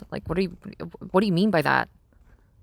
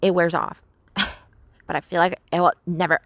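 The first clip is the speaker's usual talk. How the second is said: cartoon princess voice, lightly; whiny spoiled princess tone; Lumpy Space Princess voice; faster than usual. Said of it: "I might just keep on doing this".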